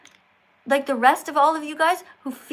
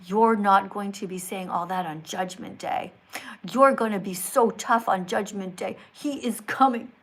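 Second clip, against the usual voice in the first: low, portentous mock reading; mock warning read-out; 7 semitones lower than usual. Streamer reading a believer's warning, mock-solemn. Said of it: "Person writes".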